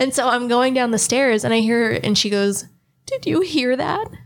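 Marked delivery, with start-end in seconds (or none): 3.1-4.1 mock quavering high little voice, near tears. Going down the stairs, the speaker retells her question, imitating her little shaky voice. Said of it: "I hear her in this like little shaky voice".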